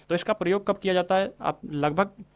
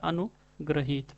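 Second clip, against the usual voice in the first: अनुग्रहित drawn out slowly, syllable by syllable; dictating अनुग्रहित at half speed; slow dictation; 4 dB quieter, much slower than usual. Shown as a demonstration. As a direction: stretch out अनुग्रहित for the class to write. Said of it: "कुछ इस तरह से लिखा जाता है".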